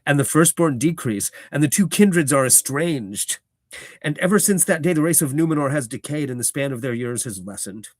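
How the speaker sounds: loud, lofty elvish declaiming; Elrond's elvish grandeur, sounded out; elf accent. Acted. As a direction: intone it like an ancient elf lord. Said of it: "I'm trying to do an elf accent for him".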